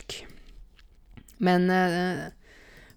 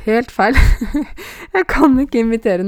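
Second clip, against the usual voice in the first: loud, higher, breaking into laughter; ler av seg selv; 7 semitones higher, 9 dB louder than usual. Real, not acted. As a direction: laugh off your failed dialect imitation. Gives up imitation, laughing at herself. (høyt og leende, gir opp)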